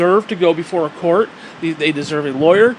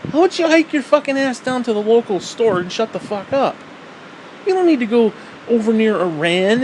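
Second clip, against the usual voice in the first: exasperated rant; 5 semitones higher than usual. Real, not acted. Ranting at hikers.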